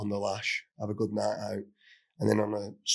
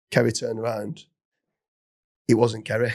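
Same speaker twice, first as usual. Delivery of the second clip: normal talking voice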